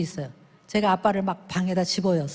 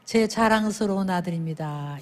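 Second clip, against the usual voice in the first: proud introduction; 4 semitones lower, 3 dB quieter than usual. Shown as a demonstration. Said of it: "이렇게 하기".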